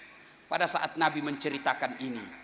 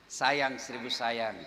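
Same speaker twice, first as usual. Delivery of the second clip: slow lament; 3 semitones lower, 3 dB quieter, slower than usual. Real, not acted. Lamenting refrain.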